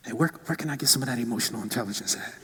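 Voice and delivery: hushed, fast conspiratorial whisper; secret whisper. Retold or imitated. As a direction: ask like buying from a dealer, breathed out. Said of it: "they'll whisper".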